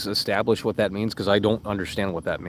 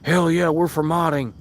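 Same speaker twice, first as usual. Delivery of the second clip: slow, higher sarcastic mimic of the other side; mock them in a slow, raised whiny voice; mocking impression; 5 semitones higher than usual. Streamer mocking chat's hypocrisy in a slow mimic. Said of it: "turning the tables like".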